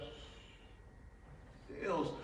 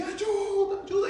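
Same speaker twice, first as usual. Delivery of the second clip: high, loud cry for help; shouting for help; 5 dB louder than usual. Retold or imitated. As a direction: scream for help going under. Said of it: "gritei assim".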